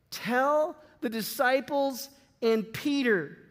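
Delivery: slow, with Tell punched and a falling close; stress on Tell. Shown as a demonstration. Preacher repeats the angel's words to the congregation, slow and stressed. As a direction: lean hard on Tell, then let Peter land. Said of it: "That is a message of grace".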